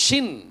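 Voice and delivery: ஷின் with a clear "sh" at the start; sh pronunciation. Shown as a demonstration. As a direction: model ஷின் as "shin". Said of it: "அப்படிங்கிற அந்த உச்சரிப்பு". (ஷின்-ஐ "ஷ" ஒலியுடன் உச்சரித்து)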